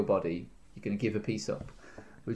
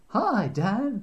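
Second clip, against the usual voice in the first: talking ham voice; 10 semitones higher than usual. Pretend. Voicing the ham again.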